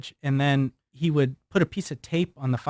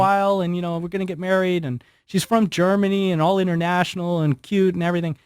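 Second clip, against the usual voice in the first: excited announcement; 4 semitones higher than usual. Retold or imitated. Proudly announcing engagement at office.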